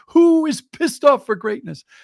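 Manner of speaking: loud, high-pitched, gleeful, happy shout. Retelling a man's daily morning announcement at the office: retelling a loud happy announcement. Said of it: "announce over the cubicles in a very loud voice, happily".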